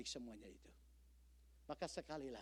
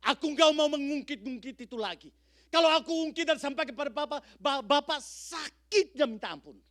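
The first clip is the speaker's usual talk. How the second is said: higher, louder pained pleading; imitating a hurt congregant; 18 dB louder than usual. Believer refusing to tell the pastor, mock pained plea. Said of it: "Pasti jawabannya begini".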